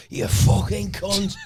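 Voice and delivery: mock angry curse. Cursing at cards in casino.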